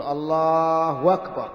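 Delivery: "الله أكبر" as Allāāhu wakbar, long drawn; hamza turned to waw. Shown as a demonstration. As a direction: stretch "الله" slowly, glide into wakbar. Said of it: "فيجعل الهمزة واوا". (نطق "الله أكبر" بمد وإبدال الهمزة واوا)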